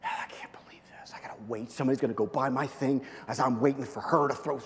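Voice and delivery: whispered, eye-rolling impatience; annoyed inner grumble. Retold or imitated. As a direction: grumble it under your breath like a bored kid. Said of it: "I'm sitting there rolling my eyes".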